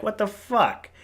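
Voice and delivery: high-pitched incredulous reaction; baffled, indignant aside; retold disbelief. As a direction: act out being taken aback, pitch jumping up. Retold shocked reaction to waiter.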